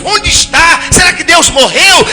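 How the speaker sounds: high, loud, pleading shout; Gideon's anguished outcry. Acted. Gideon demanding to know where God is, shouting. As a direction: cry out to a silent God. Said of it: "Gideão devia tá falando com ele mesmo".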